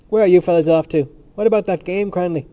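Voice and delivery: high, loud hail; calling out. A narrator's reading. Dixon asks Cranley about the game, calling out. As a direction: call across to someone walking off. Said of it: "called out".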